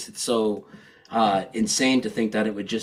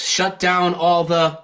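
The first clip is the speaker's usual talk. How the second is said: mock yell; 5 semitones higher than usual. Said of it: "He yells".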